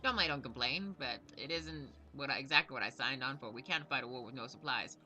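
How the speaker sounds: lightly voiced self-important gnome commander; a hint of a proud military quartermaster; blustering gnome knight. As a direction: read the knight's lines with a touch of grumbling bluster. Reads gnome quartermaster's game dialogue.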